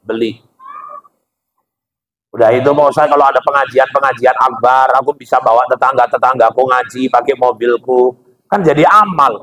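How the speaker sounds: a hint of a pleading congregant justifying himself; lightly voiced congregant. Congregant to the preacher, lightly voiced eager excuses.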